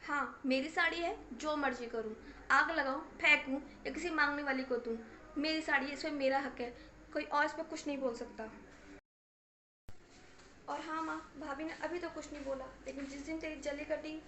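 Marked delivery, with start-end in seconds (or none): 0.1-8.5 defiant anger. Acted. Daughter defiantly claims her saree.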